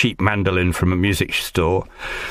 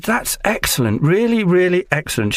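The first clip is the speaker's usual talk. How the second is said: much higher put-on voice for the impressed casting director; imitating casting director; 11 semitones higher than usual. Actor retells the casting director praising his mandolin tune in a much higher gushing voice.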